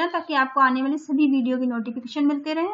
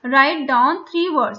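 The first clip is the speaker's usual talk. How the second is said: slow task reading; 5 dB louder, much slower than usual. Shown as a demonstration. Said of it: "teacher reading the task".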